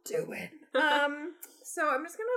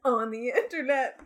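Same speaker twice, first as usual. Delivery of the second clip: hammed-up announcer; 3 dB louder than usual. Imitating video intro.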